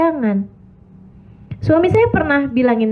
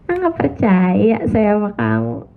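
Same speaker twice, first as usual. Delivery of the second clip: mock dismissive wife. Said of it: "wife's inner dismissive reply".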